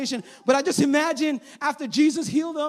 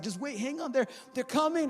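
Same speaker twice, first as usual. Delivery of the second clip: much softer, calm and patient; hushed patience; 6 dB quieter than usual. Retold or imitated. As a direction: quietly keep the disciples waiting. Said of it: "And Jesus is like".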